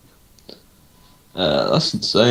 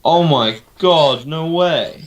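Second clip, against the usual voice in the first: stunned disbelief; 4 semitones higher, slower than usual. Real, not acted. Disbelief at Christian Bale news.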